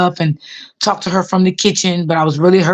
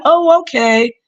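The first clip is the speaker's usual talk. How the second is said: put-on a sweet old lady not wanting to be a bother; elderly lady's voice; 8 semitones higher, slower than usual. Old patient asking her carer for water, high and gentle.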